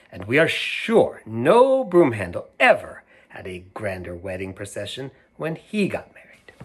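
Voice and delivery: lively read-aloud storyteller; animated picture book reading; reading to children. A narrator's reading. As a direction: read it out to a room of kids.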